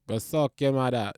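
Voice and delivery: quick try at a Jamaican accent. Shown as a demonstration. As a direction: toss out a mock Jamaican insult. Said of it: "or Jamaican nigga".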